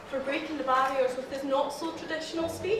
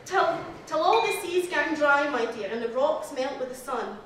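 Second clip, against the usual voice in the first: put-on reciting Burns in a light Scottish accent; a gentle Scottish accent on the love lines; tender verse in a mild Scottish accent. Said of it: "this is me trying to do a Scottish accent".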